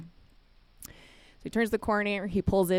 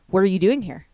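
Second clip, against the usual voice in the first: loud, surprised question; taken aback; 2 semitones higher, 8 dB louder than usual. Retold or imitated. Dad finds the pastor in his office, surprised. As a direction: blurt the question at an unexpected face.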